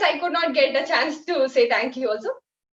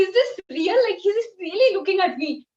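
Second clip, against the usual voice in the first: higher-pitched, thrilled questioning; excited disbelief; 5 semitones higher than usual. Retold or imitated. Devotee wondering if guru really sees her, excited. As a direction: relive your excited disbelief. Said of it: "like, so excited".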